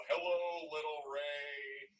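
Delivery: high, slow, patronizing hello; mock condescending greeting. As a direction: talk down to him like a child. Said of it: "this was her tone".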